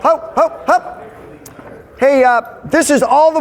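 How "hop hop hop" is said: high sing-song "hop, hop, hop"; calling out. Real, not acted. Leader calling the men to get moving, high sing-song call. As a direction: chirp it high to hurry them along.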